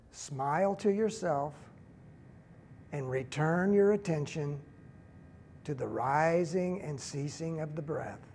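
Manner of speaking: slow, unhurried meditation leader with long pauses; guided meditation. Real, not acted. Teacher leading a standing group through breathing, calm guided meditation.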